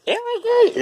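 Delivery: very high falsetto squeak; squeaky silly voice. Pretend. Vlogger repeating a line in a squeaky joke voice. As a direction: squeak it like a cartoon.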